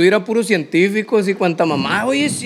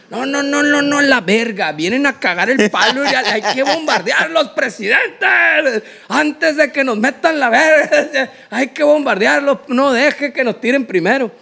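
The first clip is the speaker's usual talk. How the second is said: hawkish general; 5 semitones higher than usual. Retold or imitated. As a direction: beg the president to strike first. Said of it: "general urging bombing, retold".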